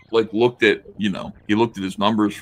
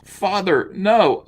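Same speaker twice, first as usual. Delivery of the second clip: mock anguish; 9 semitones higher, 4 dB louder, much slower than usual. Voicing heroine's cry.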